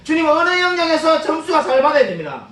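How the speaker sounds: high, urgent mock plea to God; imitated prayer cry. Preacher mimics a parent praying for exam scores, high-pitched cry. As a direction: act out a parent crying out in prayer. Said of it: "막 이렇게 외치는 분들이 있습니다".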